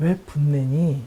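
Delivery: gentle, calm, unangry voice.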